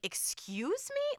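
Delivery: high, slow, affronted; offended "excuse me". Retold or imitated. The pregnant woman snapping back at the mom, affronted. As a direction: pretend to be the insulted woman. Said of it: "I would have been like".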